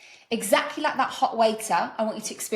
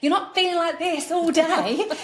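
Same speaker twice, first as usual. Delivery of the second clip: laughing; 7 semitones higher, 4 dB louder, slower than usual. Acted. Mock rush of happiness, laughing.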